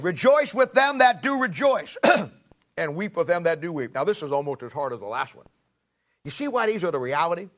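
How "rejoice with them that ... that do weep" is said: scripture reading. Acted. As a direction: lay out each word of the verse like a pronouncement. Reads verse fifteen aloud.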